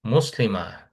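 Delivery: "মুসলিমা" ending on a breath of h, not t; final ta as h. Shown as a demonstration. Teacher shows students the round ta, "মুসলিমা" ending h-like. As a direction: let the last syllable of "মুসলিমা" end like an h. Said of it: "এটা হায়ের মতো উচ্চারণ হয়".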